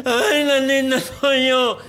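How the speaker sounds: high, mock nasal voice; nasal-speaking man. The nasal man asks about the hump, mock nasal voice. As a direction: imitate a man talking through his nose. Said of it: "un gangoso".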